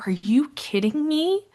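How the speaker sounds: high, loud and fast outburst; imitating upset Maya. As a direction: rant like a betrayed fan. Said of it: "And she goes".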